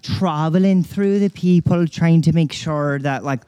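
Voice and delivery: put-on Irish brogue; Irish accent. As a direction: talk in a thick Irish accent. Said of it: "That's a little too Irish for me".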